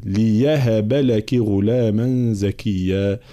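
slow chanted tajweed recitation; slow Quran chant; Quranic recitation. Shown as a demonstration. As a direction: recite it measured and melodic.

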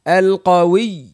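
القوي with the doubled ي fully pressed; teacher demo of the doubled yaa. Shown as a demonstration. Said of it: "أنا كيفاش ننطق".

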